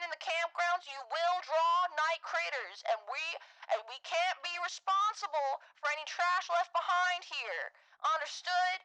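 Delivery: lightly Southern camp counselor; brisk orientation-leader welcome for new campers. Pretend. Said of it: "the camp counselor voice".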